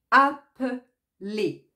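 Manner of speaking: appeler spoken slowly, syllable by syllable; teacher sounding out appeler; slow syllable demo. Shown as a demonstration. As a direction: sound out a-pe-ler for students. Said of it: "Si on regarde le E de jouer".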